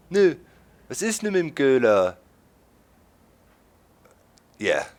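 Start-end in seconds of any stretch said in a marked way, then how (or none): 0.1-2.2 lightly voiced Saxon shop clerk; a hint of an impatient Saxon clerk; Saxon dialect. Clerk asking about the Coke, mild Saxon. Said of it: "the clerk said".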